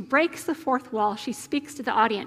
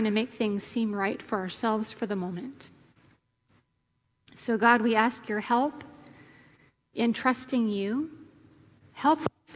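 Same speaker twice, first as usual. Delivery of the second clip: prayer. Real, not acted. Leads the congregation in prayer.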